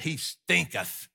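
put-on slow, solemn old-English read; King James reading. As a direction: intone it like old scripture. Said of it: "how the King James says it".

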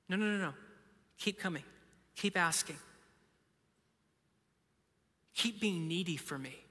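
soft, unhurried reassurance; gentle invitation. Pretend. God inviting the needy back, gentle and soft. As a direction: coax them back quietly, with pauses.

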